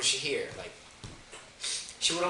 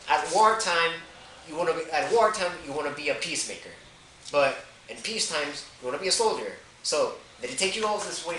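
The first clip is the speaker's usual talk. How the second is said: confronting uncle; 3 semitones higher than usual. Retold or imitated. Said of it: "So I told him".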